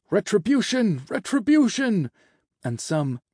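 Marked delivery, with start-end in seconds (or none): 0.1-2.1 high, loud crowd chant; shouted cry, pitched way up; barked shouting. A narrator's reading. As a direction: bark it out like an accusing mob. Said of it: "almost like barks from all the angels".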